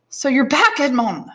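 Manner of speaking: put-on high, loud greeting in a Marseille accent; heavy Marseille accent. Tailor welcomes Edmond back, heavy Marseille accent. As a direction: greet heartily in thick Marseille French accent. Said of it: "in a heavy Marseille accent".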